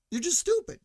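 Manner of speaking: high, loud jab; shouted insult. Real, not acted. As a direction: yell it at them. Insulting truck owners.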